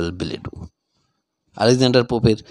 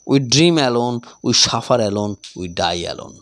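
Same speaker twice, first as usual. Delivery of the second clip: each phrase read out very slowly; slow, measured reading of quotations; slow recitation; 2 semitones lower, much slower than usual. Shown as a demonstration. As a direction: recite the quotes slowly for the class. Reads quotation examples slowly.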